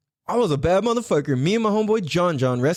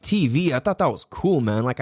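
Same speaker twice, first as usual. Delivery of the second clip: normal talking voice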